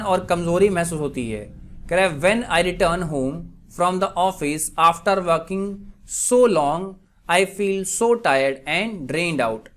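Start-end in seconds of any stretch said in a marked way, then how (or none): 2.2-9.7 very slow, spaced-out example reading; slow dictation. Shown as a demonstration. Teacher gives students an English translation, slow dictation. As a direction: read it out slowly, phrase by phrase. Reads example sentence slowly.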